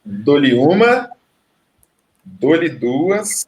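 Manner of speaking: slow, drawn-out auction call; auctioneer. Acted. Counting down like an auction.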